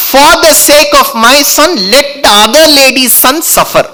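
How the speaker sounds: lightly voiced scheming stepmother; Kaikeyi's scheming. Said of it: "That was Kaikeyi".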